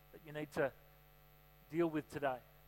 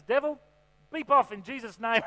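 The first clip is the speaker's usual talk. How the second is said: higher, louder hammed-up yell at the devil; mock rebuke; 5 semitones higher, 8 dB louder than usual. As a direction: bellow a rebuke into the mic. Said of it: "she grabs the microphone and says".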